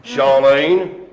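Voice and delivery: Charlene in a put-on accent. Shown as a demonstration. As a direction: say the name with an affected accent. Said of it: "do this in this accent".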